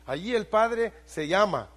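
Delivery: loud, high fervent pulpit preaching; preaching at full force. Acted. Pastor preaching fervently to his congregation, loud and rising. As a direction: build the sermon to a ringing peak.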